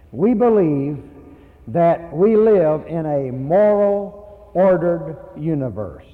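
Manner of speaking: slowed, weighty words; slow, firm conviction on believe; slow emphatic preaching. Real, not acted. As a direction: press each word home slowly.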